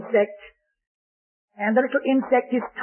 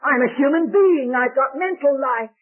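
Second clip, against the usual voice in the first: put-on cheeky little boy; 2 semitones higher, 3 dB louder than usual. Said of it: "the cheeky little fellow looks down and says".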